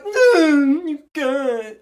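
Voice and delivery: high, loud sarcastic brush-off; mock uncaring friend. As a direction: toss it off like you don't care. Mocking dismissive friend.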